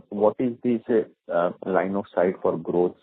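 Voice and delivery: ordinary delivery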